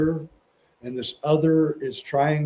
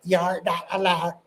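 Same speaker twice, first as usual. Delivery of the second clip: put-on elf voice, higher, altered timbre; Terrence McKenna; 4 semitones higher than usual. Guest shows host how the elves sounded, mimicked elf voice. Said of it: "they sound like this ... Sort of like Terrence McKenna's voice".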